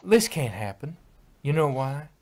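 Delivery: loud indignant protest; yelling. Acted. Applejack yelling at her family, loud and indignant. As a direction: shout it at your family. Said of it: "She yelled".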